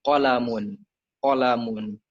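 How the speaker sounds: qalamun with a firm, stressed first qaf and short ending; pressed qaf. Shown as a demonstration. Showing native Arabic reading, qalamun stressed on qaf. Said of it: "di qafnya ditekan".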